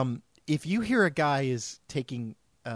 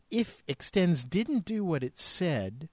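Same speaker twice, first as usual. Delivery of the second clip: slow ad quote; 3 dB quieter, slower than usual. Retold or imitated. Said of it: "listen to this other thing they say".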